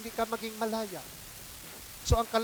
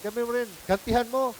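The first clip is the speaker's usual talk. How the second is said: tempting devil; 3 semitones higher, 4 dB louder, faster than usual. Retold or imitated. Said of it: "sabihin mo".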